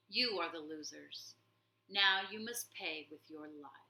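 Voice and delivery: loud, gloating villain's threat; menacing warlord speech. Acted. Warlord gloating over the Redwall defenders, loud and menacing. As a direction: lord it over the beaten defenders.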